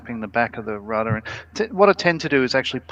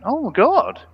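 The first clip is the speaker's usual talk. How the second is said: mock surprise; 3 semitones higher than usual. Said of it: "and went".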